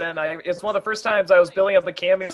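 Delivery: ordinary delivery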